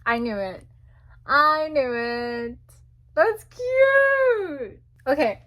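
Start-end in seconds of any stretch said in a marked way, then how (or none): 3.1-4.8 a high, loud cry on cute; excited squeal. Real, not acted. Fan seeing a photo card, squealing with delight. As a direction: squeal at something adorable.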